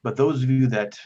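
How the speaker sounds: lightly voiced grave cleric, pausing heavily; weighty, formal plea with emphatic phrase openings; solemn Father figure. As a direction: confide painful news with measured earnestness. Game master voices troubled Father Geno.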